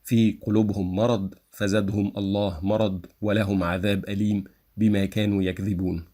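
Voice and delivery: word by word, a small stop after each word; read without diacritics. Shown as a demonstration. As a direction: recite في قلوبهم مرض with each word cut off.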